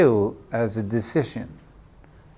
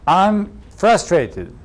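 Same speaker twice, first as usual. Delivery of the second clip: slow, higher mock frustration; frustrated partner; 6 semitones higher, much slower than usual. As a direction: drag it out like a fed-up partner. Partner voiced saying frustrated.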